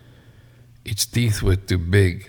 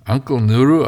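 eager call; 6 semitones higher, 6 dB louder than usual. Acted. Child calling to the elder.

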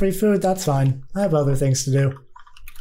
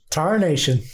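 put-on old prospector. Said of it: "do your Root impression".

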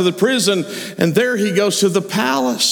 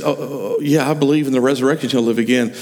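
Martha answering fast; 4 semitones lower, faster than usual. Acted. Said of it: "She said".

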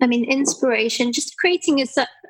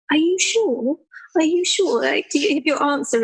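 higher, lightly voiced questioning parent; doubting parents; 4 semitones higher than usual. Parents second-guessing their kid's answer in the queue, lightly imitated doubt. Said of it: "and their parents would go".

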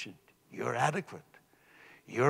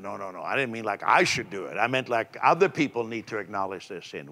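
flustered critic; 6 semitones lower than usual. Retold or imitated.

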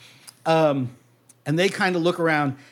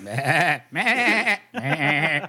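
retching monster language; much slower than usual. Pretend. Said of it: "they talk like they're throwing up".

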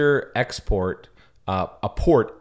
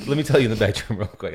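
fast bro hustle; a light bro voice; mock bro. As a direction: pitch it like a sleazy bro. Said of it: "That's what I tell my guys".

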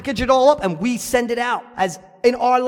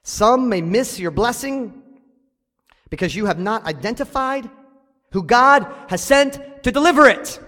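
slower and more deliberate, each phrase set apart; said real slow; 3 dB louder than usual. Shown as a demonstration. Pastor repeating his note slowly for the congregation. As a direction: spell it out slowly so the church writes it down. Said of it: "I'm gonna say it real slow".

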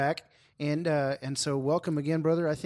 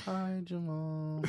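awkward crowd greeting; 5 semitones higher, 6 dB quieter, much slower than usual. Pretend. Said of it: "go ahead and say".

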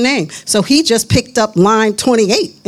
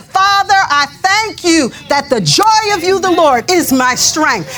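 grateful prayer; 3 semitones higher than usual. Shown as a demonstration. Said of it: "it is better ... to say".

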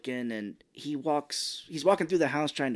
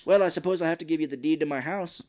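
mock put-upon host, rattled off; quick, exaggerated reluctant generosity; escalating grudging offer; 3 semitones higher, 3 dB louder, faster than usual. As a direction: play the begrudging offer for laughs. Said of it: "how she keeps escalating".

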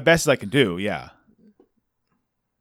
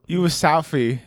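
put-on higher London-accent echo; mock London accent; 4 semitones higher than usual. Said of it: "just from that accent".

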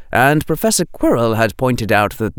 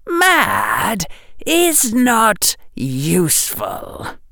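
chill whisper; much slower than usual. A narrator's reading. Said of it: "said the chill whisper".

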